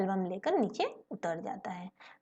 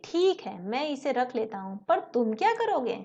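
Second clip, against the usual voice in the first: concerned question; 4 dB louder than usual. Acted. Boy asks worried question.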